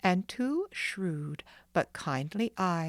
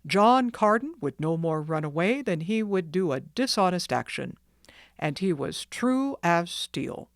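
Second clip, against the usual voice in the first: louder, steady praise of a friend; proud firm doctor; 4 dB louder than usual. Acted. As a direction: defend the father with conviction. Doctor defending the father.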